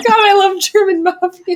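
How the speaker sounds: high, loud laughing delight. Real, not acted. Friend delighted by German mafia idea, laughing hard. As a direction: squeal it through laughter.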